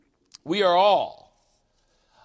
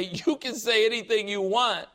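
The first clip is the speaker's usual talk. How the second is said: intense rebuttal; 3 semitones higher than usual. Shown as a demonstration. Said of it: "say it with that intensity".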